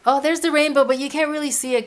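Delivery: eagerly showing the rainbow; excited. Real, not acted. Pointing out the rainbow.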